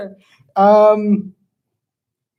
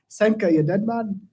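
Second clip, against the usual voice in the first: slow mock Jamaican movie quote; bad Jamaican accent. Player quoting the movie to find it, bad Jamaican accent. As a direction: feel out a Jamaican accent slowly. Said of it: "quote the movie in my head".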